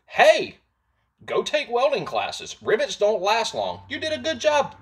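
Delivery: high, goofy voice mocking the commenter; mock dumb voice. Mocking the commenter's advice, goofy high voice. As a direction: play him as a dim know-it-all. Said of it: "He said".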